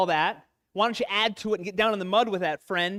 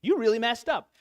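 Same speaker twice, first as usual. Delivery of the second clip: higher and louder, a blunt friend's mock rebuke; buddy calling you out; 5 semitones higher, 4 dB louder than usual. A guy imitating a friend calling him out, higher and louder. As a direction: play the straight-talking buddy, higher and louder. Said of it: "But getting called out".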